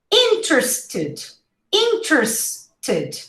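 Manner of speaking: "Interested" as IN-trs-tid; reduced pronunciation. Shown as a demonstration. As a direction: slowly split "Interested", first vowel clear. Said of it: "this is how you pronounce it".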